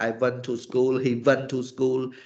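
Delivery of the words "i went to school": normal talking voice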